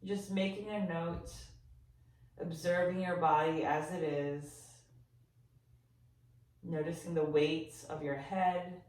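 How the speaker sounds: gentle, softened body-scan voice with long pauses; guided meditation. Real, not acted. Yoga teacher guiding listeners to sense their body, calm meditation voice. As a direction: ease them into noticing, leaving silence between phrases.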